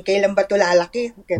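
slipping into Tagalog; tagalog english mix. Real, not acted. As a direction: Taglish code-switch. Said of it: "we can speak in Taglish".

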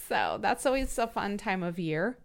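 dry, understated sarcasm; heavy sarcasm. Real, not acted. Grumbling about quarterly taxes, heavily sarcastic. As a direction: say it as if taxes were no fun at all. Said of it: "The sarcasm is very heavy".

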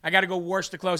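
put-on dad's accent with "wash" as "warsh". Quoting dad about laundry, "wash" as "warsh". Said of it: "my dad says "warsh".

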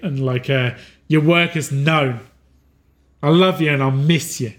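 lightly voiced mentor, encouraging and tender; a hint of a loving guide saying goodbye; gentle farewell. Departing figure urges Arlo to share his photos, lightly voiced and tender.

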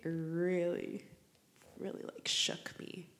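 choked, near-whispered through real tears; real tears catching the voice; teary. Real, not acted. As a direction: barely get it out, fighting tears. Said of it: "sorry, I'm crying".

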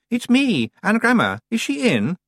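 put-on high hissed girl's voice from under a hood; a haughty young witch hissing her name. A narrator's reading. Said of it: "from its depths a voice hissed".

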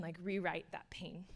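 tender whispered wish. Real, not acted. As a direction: let the words fall to a whisper. Tender apology to hurt listeners.

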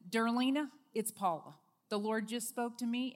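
loud, bright, eager message; excited voicemail. Retold or imitated. Calling her Georgia friend, eagerly excited. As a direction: leave a thrilled voicemail.

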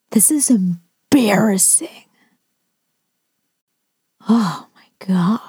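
slow, disgusted whisper; whispered shame on the teacher's behalf. Real, not acted. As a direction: hush it out, appalled.

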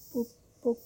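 high, far-off dreamy poop-poop; dreamy murmur. A narrator's reading. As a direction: mimic a car horn in a daze. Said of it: "murmura încet".

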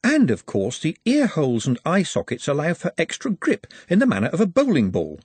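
lightly voiced, happy and matter-of-fact; cheerfully clinical. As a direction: explain the gore brightly. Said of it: "he added happily".

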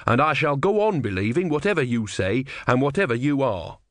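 a touch of stubborn conviction; earnest disciple. Acted. Brother holds to his faith, mildly earnest insistence.

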